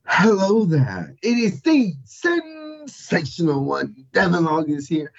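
slow, high, grand host voice; showman intro. Acted. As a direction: announce yourself with a flourish. Co-host's showy self-introduction.

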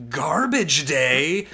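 deadpan killer line. Retold or imitated. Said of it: "looks at the guy and goes".

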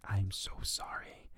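soft, slow whisper; whispered apology. Retold or imitated. Sister apologizes quietly in story.

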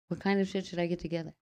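lightly voiced curious listener; imitating a listener. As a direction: ask it as the viewer would. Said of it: "you ask, Dina?".

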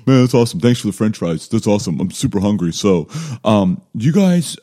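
retold nervous laugh-along; forced laughing. Freshman to the bullies throwing fries, laughing along. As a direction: play along with a chuckle, placating. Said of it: "I'm like, I'm laughing".

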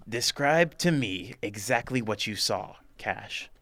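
slow, laughing character voice; lightly voiced Jack, half laughing; Jack's voice. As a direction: redo the line as Jack, slow. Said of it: "I gotta do D-, Jack's voice".

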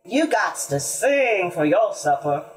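lightly voiced folksy mule; musing mule. A narrator's reading. Mule advises the hungry animals, lightly voiced and musing. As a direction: lay down the rule as a storybook mule. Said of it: "mused the mule".

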